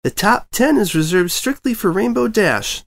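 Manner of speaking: slow, prim little unicorn filly voice; a prissy posh-toned filly. A narrator's reading. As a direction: correct them like a proper little know-it-all. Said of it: "the prim white unicorn filly said".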